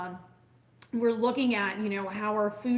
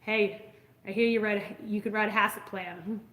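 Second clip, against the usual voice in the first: a light imitation of an old Maine accent. Cattle rancher asking a vet for help, imitated Maine accent. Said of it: "in this beautiful old Maine accent".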